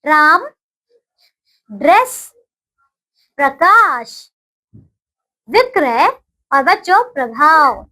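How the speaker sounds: put-on slow, clearly spaced words for children to repeat; teacher's call-and-repeat drill; repeat after me. Shown as a demonstration. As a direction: say each word cleanly, pausing for the class to echo. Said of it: "बोलिए मेरे साथ".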